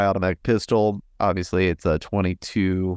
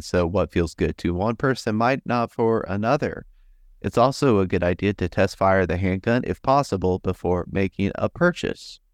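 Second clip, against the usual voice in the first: flat robotic reading voice. Acted. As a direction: read it out like a monotone robot. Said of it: "I should read it in the robot voice".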